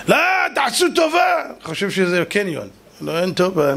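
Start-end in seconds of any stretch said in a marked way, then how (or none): 0.1-1.4 high, protesting appeal; insistent pleading. Acted. King begs the gatekeepers to let him in, insistent. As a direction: plead your way in, pitched well up.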